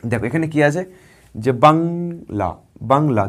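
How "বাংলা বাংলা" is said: বাংলা stretched very slowly into বাং and লা; বাংলা drawn out as baŋ-la; slow syllable demo. Shown as a demonstration. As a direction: pronounce বাংলা slowly as two beats. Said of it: "দুটো আমি উচ্চারণ করছি".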